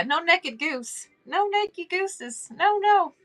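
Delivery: high, drawn-out amused no; high, slow, giggly mock insistence. Real, not acted. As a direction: tease it, stretching no naked gooses. Joking about naked goose.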